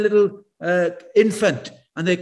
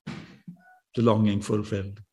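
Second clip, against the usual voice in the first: hushed longing; 10 semitones lower, 7 dB quieter, slower than usual. Acted. Repeats the line slowly, softly.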